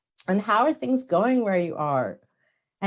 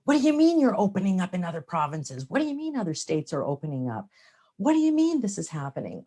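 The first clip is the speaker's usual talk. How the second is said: lightly indignant disbelief, quick and incredulous; mock judgmental; faster than usual. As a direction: voice the inner judge protesting. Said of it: "the challenge of judgment".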